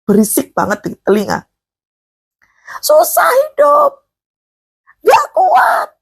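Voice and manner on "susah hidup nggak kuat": high, drawn-out wail of complaint; imitated high-pitched whining shout; mock yelling. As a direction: yell it like someone who can't cope. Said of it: "langsung teriak kenceng".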